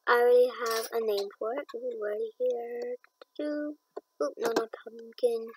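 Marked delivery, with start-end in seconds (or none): 1.7-5.5 whisper. Real, not acted. Hushed while choosing.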